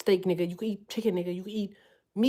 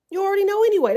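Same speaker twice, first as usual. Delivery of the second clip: higher and louder, pressing the point home; louder, higher repeat; 8 semitones higher, 5 dB louder, much faster than usual. Shown as a demonstration. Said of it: "repeated louder".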